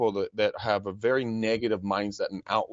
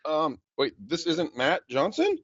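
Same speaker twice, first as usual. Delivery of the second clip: mock innocent caller; 4 semitones higher than usual. Feigned confusion in cold call.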